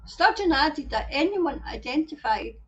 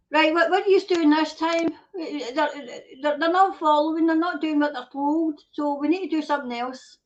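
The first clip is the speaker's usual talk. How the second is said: lightly voiced scheming officials, a touch higher; mock officials; 4 semitones higher than usual. Government planning its next move, lightly mocked official voice. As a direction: play the plotting government, half-mocking. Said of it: "they must go like this".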